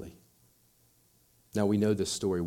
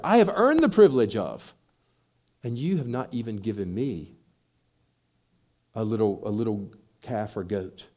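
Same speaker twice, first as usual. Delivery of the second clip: indignant elder son; 5 dB louder than usual. Retold or imitated. Elder son complaining to his father, loud then fading. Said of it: "his mindset is very clear here".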